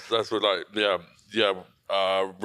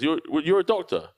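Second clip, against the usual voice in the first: higher, rising disbelief; incredulous question; 8 semitones higher, 3 dB louder than usual. Retold or imitated. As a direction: retell a baffled double-check. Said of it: "And she goes".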